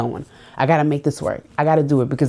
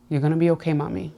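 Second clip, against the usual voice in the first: mother's comfort. Retold or imitated. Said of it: "the words that she used to always tell me".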